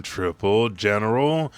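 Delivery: loud shouted attack name; attack call. Retold or imitated. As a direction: bellow the move name together.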